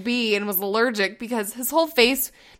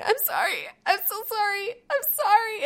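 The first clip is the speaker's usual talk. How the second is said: put-on a touch of a small boy, softer and higher; lightly voiced sorry child; 9 semitones higher, 5 dB quieter than usual. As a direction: gently mimic her son apologizing. Quoting crying son apologizing.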